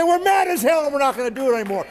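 angry rally chant, shouted, the last half fast. Pretend. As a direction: yell it like a crowd chant. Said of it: "We're gonna say".

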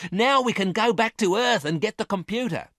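high-pitched, elated rush of relief; excited. A narrator's reading. Miranda looking forward to returning to Earth, excited. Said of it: "she cried excitedly".

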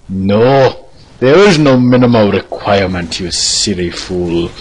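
lightly voiced pompous mentor; scolding master character. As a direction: rebuke the pupil with mock authority. Plays master answering pupil.

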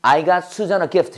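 very slow, each word spaced; slow model sentence. Shown as a demonstration. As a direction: drill it slowly for the class. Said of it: "시작".

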